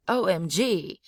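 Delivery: "O M G" with a high peak then a fall; high falling exclamation. Shown as a demonstration. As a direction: exclaim "O M G", dropping at the end. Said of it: "high falling tone".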